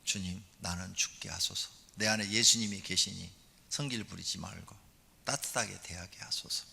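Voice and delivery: soft, hushed prayer fading to whisper; quiet prayer. Shown as a demonstration. Wife praying quietly instead of scolding, hushed. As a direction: pray it low and humbly. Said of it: "그때 자기를 죽여라".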